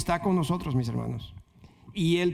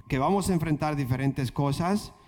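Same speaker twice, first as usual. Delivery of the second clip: normal talking voice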